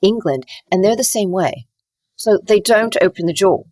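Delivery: London-style English accent, jaw closed; private-sounding British English. Shown as a demonstration. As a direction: demonstrate a reserved English accent kept inside the mouth. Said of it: "then you go to London".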